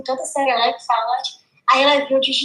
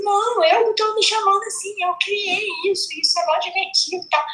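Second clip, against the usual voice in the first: retold protest; 6 semitones higher than usual. Defending herself to the school board.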